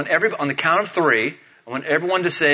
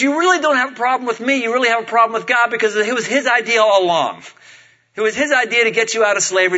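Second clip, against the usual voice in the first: quick, higher-pitched self-defence; defensive protest; 5 semitones higher, faster than usual. Acted. Moses tells people their problem is with God, defensive protest. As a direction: rattle off the protest, pushing blame away. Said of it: "And what he's saying is".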